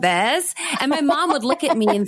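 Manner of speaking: rising tune on every phrase, lightly done; up talk. Shown as a demonstration. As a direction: lift the ends like questions, teen style. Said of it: "I was talking like this".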